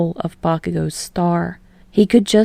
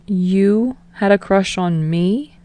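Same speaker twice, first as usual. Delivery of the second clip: wondering aloud; slower than usual. Acted. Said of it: "he wonders aloud".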